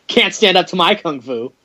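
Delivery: understated bad-dub mimicry; Yoon. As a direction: echo the cheesy boast lightly. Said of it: "I hate the way he says that".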